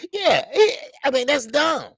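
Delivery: high, loud, cracking with laughter; laughing hard. Real, not acted. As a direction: talk through a fit of laughter. Laughing hard while talking.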